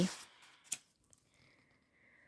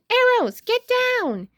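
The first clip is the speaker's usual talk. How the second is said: yelling; 12 semitones higher than usual. A narrator's reading. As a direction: yell a warning to friends. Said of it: "She yells to Snickers".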